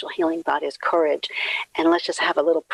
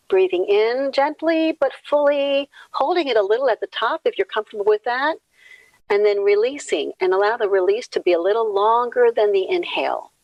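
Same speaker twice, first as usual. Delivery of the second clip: lilting, higher meditation instruction; guided breathing; 4 semitones higher than usual. Acted. Leader asks everybody to get comfortable and breathe, lilting guidance.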